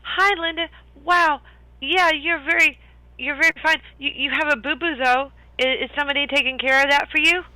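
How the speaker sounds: high, friendly and chatty; bubbly young elf, way up high; cheerful elf voice. Acted. Plays Calamar in high voice.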